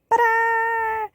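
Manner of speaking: a high, bright showman's ta-da. Real, not acted. Showing viewers her colour on screen, high ta-da. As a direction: present it like a magic trick.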